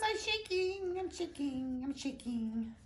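high little puppy voice, easing down; shaking puppy's voice. Acted. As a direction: voice a trembling puppy, starting high and sinking. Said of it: "He says".

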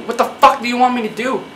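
full-voiced exasperated what the fuck; exasperated plea. Creator demanding an answer from viewers, exasperated. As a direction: demand it, fed up.

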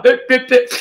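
mock beeping in quick bursts; staccato imitation of audio breakup; imitated mic glitch. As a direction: mimic a broken mic beeping. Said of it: "You sound like the Quran".

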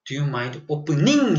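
"Do you mind opening?" said very slowly, each word spaced out; slow drilled model phrase. Shown as a demonstration. Teacher drilling students, "Do you mind opening?" very slowly. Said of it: "해야 돼요".

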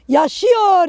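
retold shout of relief. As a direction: call out that she's alive, half-restrained. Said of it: "diye kaç kere bağırdım".

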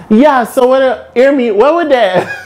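high-pitched imitated blurting; mock confused question. Passenger waking in the taxi asking where they are, mock confused high voice.

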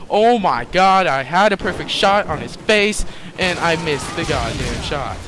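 loud, frustrated complaining; exasperated outburst. Real, not acted. Gamer shot with a bazooka, loud exasperation. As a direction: rant loudly at a blown chance. Killed after missing perfect shot.

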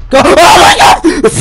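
high, breaking laugh over oh my god; real laughing fit. Real, not acted. Seeing swollen Yuka, bursting into high laughter. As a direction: laugh helplessly, voice shooting up.

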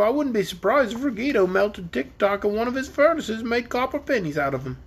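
dragon voice. Acted. Dragon telling the children about his ancestor, lightly voiced. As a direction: play the dragon, grumbling about his grandpa.

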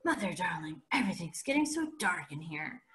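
hoarse voice. Acted. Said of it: "in this very hoarse voice".

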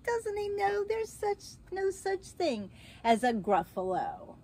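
high-pitched incredulous question; high, storybook disbelief; incredulous mouse. Acted. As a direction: ask it high, as if it is obvious. Mouse mocks the silly snake.

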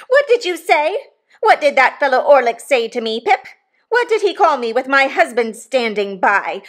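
very high outraged demand, settling slightly; beginning to scream. A narrator's reading. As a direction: shriek the question in outrage. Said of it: "beginning to scream".

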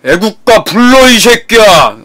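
loud, drawn-out imitation of a tough classmate; thuggish classmate. Classmate ordering him to sing the anthem, thuggish. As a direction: order him around like a school thug. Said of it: "목소리 쫙 깔고선".

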